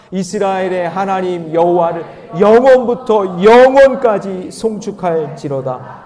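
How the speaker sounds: emphatic congregational Bible reading; forceful scripture reading. Acted. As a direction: declare the verse boldly for all to follow. Repeats verse reading with more force.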